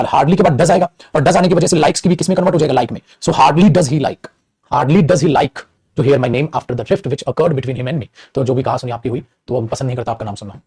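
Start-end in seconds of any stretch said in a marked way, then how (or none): 3.2-4.3 very slow, every word spaced apart; slow dictation. Shown as a demonstration. Teacher dictating the corrected sentence to students, very slowly. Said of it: "hardly से ही sentence की शुरुआत". 4.7-8.1 very slow, each word drawn out; slow dictation. Shown as a demonstration. Teacher dictating the full sentence to students, very slowly. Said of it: "inversion लगेगा".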